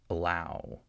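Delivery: "allow" with a very short first vowel; reduced schwa. Shown as a demonstration. Teacher contrasts it with short U, quick schwa in "allow". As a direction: hurry through the "a" of "allow". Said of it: "it's even faster and shorter".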